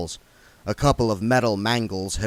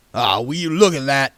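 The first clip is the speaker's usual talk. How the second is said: hammed-up surprise, a touch louder; the king pretending to spot the cart; tremendous astonishment; 4 semitones higher, 4 dB louder than usual. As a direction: play it like a staged discovery. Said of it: "in tremendous astonishment".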